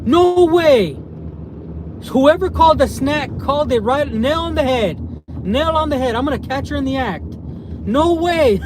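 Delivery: high-pitched, excited disbelief; thrilled, gleeful surprise; real astonished delight. Real, not acted. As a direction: exclaim like you just caught someone out. Spots his missing wife.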